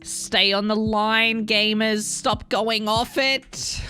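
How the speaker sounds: high, slow drawn-out plea; exasperated pleading. Real, not acted. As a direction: beg them, stretched out. Pleading with players.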